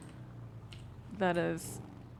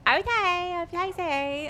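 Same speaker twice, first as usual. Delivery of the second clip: higher, louder mock Australian accent; 12 semitones higher, 10 dB louder than usual. Streamer imitating a player's Australian accent, higher and louder. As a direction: imitate an Australian guy, hammed up. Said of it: "I think he's Australian or something".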